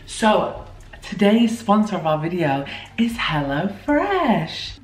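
put-on slow, bright presenter voice for kids; kids show host. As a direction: sell it like a children's TV host. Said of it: "Why am I talking like a children's T V host?".

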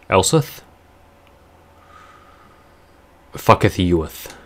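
mock archaic -eth speech; fake old English. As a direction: ham up old English endings. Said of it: "I sound like I have a lisp when I talk like that".

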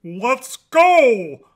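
loud, high goose honk; big honked rallying cry. A narrator's reading. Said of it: "honked Goosey Lucy".

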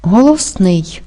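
slow "Голосний", weight on final "ний"; stress on third syllable. Shown as a demonstration. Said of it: "Наголошений третій склад". (повільно «Голосний» з наголосом на третій склад)

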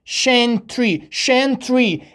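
shentry alone, as "shen-tree"; partial-word drill. Shown as a demonstration. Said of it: "تلفظ شنت".

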